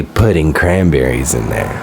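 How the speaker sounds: low, slow deadpan announcement; deadpan costume answer. Pretend. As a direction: state the absurd costume name slowly and low.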